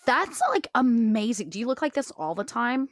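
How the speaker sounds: excited character. Acted. Player voices excited character.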